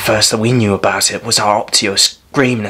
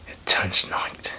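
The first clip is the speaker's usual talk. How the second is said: slow, soft and nearly whispered; hushed, drawn-out disbelief; hushed awe; 7 dB quieter, slower than usual. Acted. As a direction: let it out slowly under your breath. Awed telling of sudden darkness.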